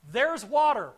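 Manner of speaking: "There's water" burst out loud and high, hitting "water" hard; spring the surprise on them with "water"; excited reveal. Real, not acted. Teacher springing a surprising meaning on his class, loud and high with "water" stressed. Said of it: "get this".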